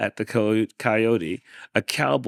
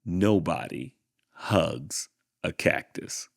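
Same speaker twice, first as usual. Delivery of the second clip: title read. A narrator's reading. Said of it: "and it's called".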